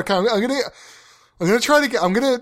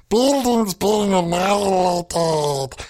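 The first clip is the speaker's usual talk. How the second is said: slow, strained alien voice attempt; hesitant stab at Stitch; trying Stitch voice; slower than usual. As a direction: reach for the Stitch voice. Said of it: "for being Stitch".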